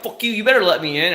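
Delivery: high-pitched mock road rage; hammed-up rude demand; mock aggressive. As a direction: imitate a pushy driver demanding way. Imitates a rude northern driver.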